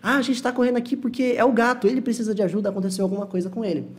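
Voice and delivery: hurried, worried call to go help; mock urgent worry over the cat. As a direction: act out the rush to help the cat. Acted worried scene, cat needs help.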